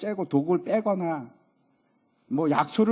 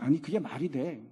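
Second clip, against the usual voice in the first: lightly acted skeptic, low and offhand; a hint of a scoffing worldly man; dismissive unbeliever; 3 semitones lower than usual. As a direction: brush it off in a lower, casual voice. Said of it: "세상 사람들이 이렇게 얘기합니다".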